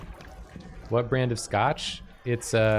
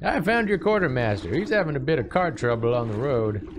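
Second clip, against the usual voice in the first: put-on old witch voice; 5 semitones higher than usual. Witch character voice.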